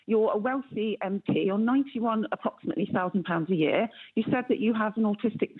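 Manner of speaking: caller heard down a phone line; radio show caller. Real, not acted. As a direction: narrow telephone sound, live on air. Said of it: "thank you very much for calling into the show".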